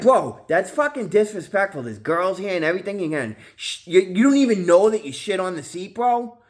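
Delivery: retold high indignant rant; high outraged scolding. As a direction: scold him in a squeaky outraged voice. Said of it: "I'm like".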